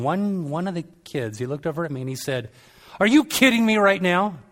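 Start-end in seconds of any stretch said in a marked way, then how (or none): 3.0-4.4 high, delighted, laughing through it; a much higher, delighted "That was awesome"; thrilled kid. Retold or imitated. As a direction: gush like an amazed fan. Kid thrilled after the debate.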